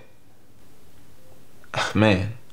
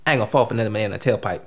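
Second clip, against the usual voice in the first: quick, lower aside as a movie character; lacking bass; 4 semitones lower, faster than usual. Acted. Actor reciting an audition movie line, lacking bass. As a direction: rattle the line off quickly without much weight. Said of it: "you gotta say it with some bass in your voice".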